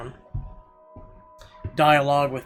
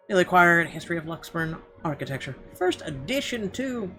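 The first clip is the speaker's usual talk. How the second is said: rising, higher-pitched delight; excited discovery; 4 semitones higher, 4 dB louder than usual. Acted. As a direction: marvel at a prized find, pitch climbing. Delighted at finding coveted book.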